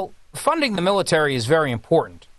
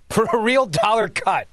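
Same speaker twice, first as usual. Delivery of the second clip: chuckling through the words; can't keep a straight face reading it; laughing; 4 semitones higher than usual. Real, not acted. Host laughing at a senator's quote, laughing. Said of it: "I can't say it with a straight face".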